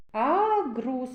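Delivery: "Агрус" with the opening А held long; first sound drawn out. Shown as a demonstration. Teacher showing children the vowel А, first sound drawn out in "Агрус". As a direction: stretch the А at the start of "Агрус". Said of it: "А голосний".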